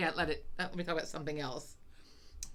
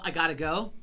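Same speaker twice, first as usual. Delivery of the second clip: mock yell; 6 dB louder than usual. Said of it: "can't you just yell".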